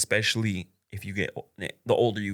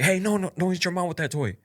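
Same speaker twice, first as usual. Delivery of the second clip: firm warning; 10 semitones higher than usual. Retold or imitated. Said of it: "I didn't, like, yell at him".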